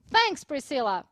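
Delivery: "Thanks" with the tongue between the teeth for TH; TH sound. Shown as a demonstration. Teacher models the TH in "Thanks", tongue between the teeth. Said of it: "Lembrando o nosso T H".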